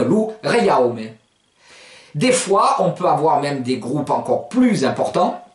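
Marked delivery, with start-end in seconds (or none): 0.0-1.0 "loureiaome" quicker, flowing as connected words; said faster. Shown as a demonstration. Teacher repeats the word at speed, quicker "loureiaome". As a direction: run the vowel groups of "loureiaome" together. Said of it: "Et plus vite, ça donne".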